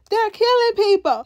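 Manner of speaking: high-pitched imitation of alarm; mock panic. Elgin pleading to the men at the truck, mock panic. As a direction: play a frightened man raising the alarm. Elgin reports killings, begging for help.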